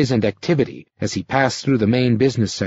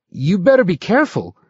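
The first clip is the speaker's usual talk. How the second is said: troubled warning; 8 semitones higher than usual. A narrator's reading. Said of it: "warned in a troubled voice".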